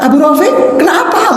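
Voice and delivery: high altered worried voice; changed voice. Retold or imitated. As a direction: disguise the voice, pitched high. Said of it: "tapi suaranya dibuat berbeda".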